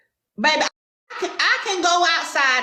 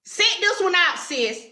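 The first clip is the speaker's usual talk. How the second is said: higher, talking down to her with a smirk; dismissive clapback; 5 semitones higher than usual. Pretend. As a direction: shut her down, sis. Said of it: "But I coulda said it".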